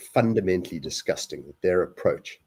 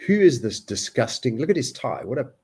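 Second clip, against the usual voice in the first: higher and louder, scornful; disgusted inner rant; 4 semitones higher, 3 dB louder than usual. Retold or imitated. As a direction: sneer at the man's look. Voicing his disgusted thought.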